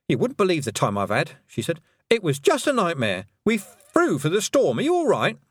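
high, breathless fluster after a wild flight; a frazzled little witch, rattled. Acted. Miss Tick flustered after storm.

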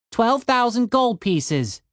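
spoken slowly, each word placed; slow deliberate. Acted. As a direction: let the sum land, calmly. Tim calmly repeats the sum.

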